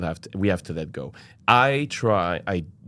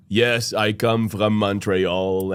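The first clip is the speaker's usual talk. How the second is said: slow, drawn-out Quebecois-accented English; English with a relaxed Quebec French lilt; much slower than usual. Shown as a demonstration. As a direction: put on a French-Canadian accent and take it slowly. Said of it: "the accent when a Quebecer speaks English".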